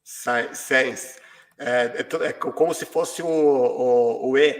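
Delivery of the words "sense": "sense" said with a clear E vowel; correct pronunciation. Shown as a demonstration. Teacher showing the class how to say "sense". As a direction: say "sense" rhyming with "tense". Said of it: "veja se você consegue ver como é pronunciar".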